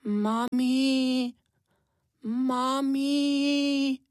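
put-on a tiny child calling for mum, near tears; almost crying little hare. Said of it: "zavolal skoro plačky".

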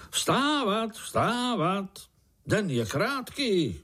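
high, ringing wake-up call; booming call. A narrator's reading. Uncle swinging on his rope, booming to wake everyone. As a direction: holler it so the whole forest hears. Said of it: "přitom hlaholil".

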